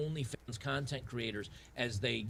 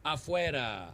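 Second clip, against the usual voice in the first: mock shout; 4 semitones higher, 5 dB louder, slower than usual. Catchphrase dismissal shout.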